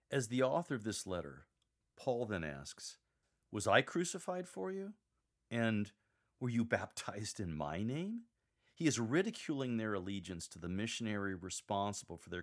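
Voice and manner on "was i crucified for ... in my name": mild annoyance, without anger; annoyed. Shown as a demonstration. Paul annoyed at the Corinthians' misplaced loyalty. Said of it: "communicate Paul's annoyance".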